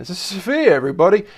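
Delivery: put-on German accent with mounting exasperation; angry German accent. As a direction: ham up a cross German accent on each repeat. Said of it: "my angry German accent".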